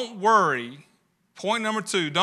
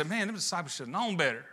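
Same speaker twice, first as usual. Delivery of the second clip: mock smug dismissal; 9 dB quieter, faster than usual. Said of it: "we can sit here and say".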